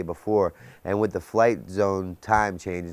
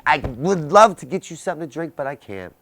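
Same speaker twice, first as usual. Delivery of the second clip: inner voice; 8 semitones higher, 5 dB louder than usual. Retold or imitated. Answering mother in his head.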